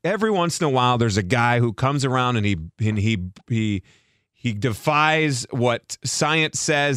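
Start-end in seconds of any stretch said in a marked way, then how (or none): 2.8-7.0 a lightly voiced old man, slow and drawn out; a hint of an old geezer. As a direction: slowly croak it like a mild old man. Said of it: "you just did the old man voice".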